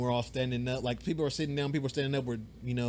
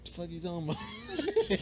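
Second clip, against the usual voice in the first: laughing; 4 semitones higher, 4 dB quieter, slower than usual. Retold or imitated. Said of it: "I'm like".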